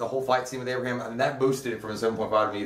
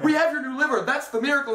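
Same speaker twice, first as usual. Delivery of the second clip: imitating the doctor; 12 semitones higher than usual. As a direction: chirp it back, pitched up high. Doctor answering the old man.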